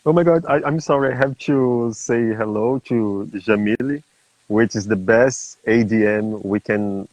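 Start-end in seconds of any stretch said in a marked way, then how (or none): 0.0-4.0 higher-pitched, excited interruption; real excited fluster. Real, not acted. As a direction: break in, thrilled to greet a guest. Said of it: "excited with her presence here".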